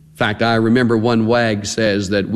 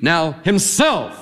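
"himself" stretched slow and held; stress on himself; 5 semitones higher, slower than usual. Shown as a demonstration. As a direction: lean hard on "himself", drawn out. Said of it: "Why do I say "himself" like that?".

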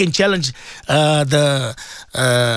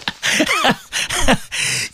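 high laugh; 12 semitones higher than usual. Real, not acted. Laughing at his own shark joke.

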